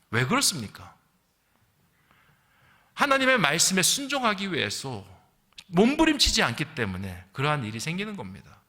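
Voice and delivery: ordinary delivery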